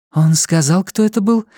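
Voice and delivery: impatient. A narrator's reading. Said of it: "нетерпеливо спросила Настя".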